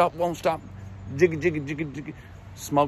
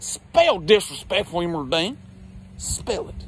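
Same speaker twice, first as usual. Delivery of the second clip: mocking challenge.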